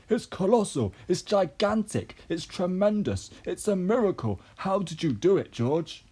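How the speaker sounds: high, loud string of exclamations; excited shout. A narrator's reading. Mr Cranky marvelling to George, high excited shout. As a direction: shout each phrase high, punching it out. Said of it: "Mister Cranky shouted, dancing around".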